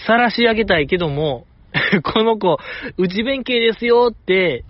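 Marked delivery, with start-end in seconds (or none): 2.0-4.1 mock public announcement, pitched up; called-out announcement. Host imagines outing a shy member, mock proclamation. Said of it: "大きい声で言いたい".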